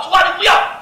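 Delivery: high, loud plea; pleading cry. Acted. Abraham crying out to God, loud plea. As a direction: cry out to stop him.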